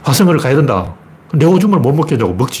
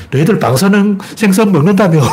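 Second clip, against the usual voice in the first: imitated jeer, pitched up; mocking taunt; 4 semitones higher than usual. Chinese people teasing Koreans about eating radioactive fish, imitated taunt. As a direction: needle them with a sarcastic jab. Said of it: "빈정거린단 말이야".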